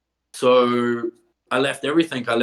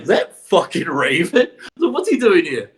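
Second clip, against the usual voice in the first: laughing, rising up high in disbelief; mock shock at a familiar face; surprised disbelief; 4 semitones higher than usual. Seeing Raven on a shop poster, laughing disbelief.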